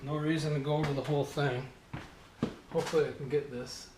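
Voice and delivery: muffled behind a mask; words dulled by a face mask; through a face mask. Real, not acted. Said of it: "can't talk with the mask on".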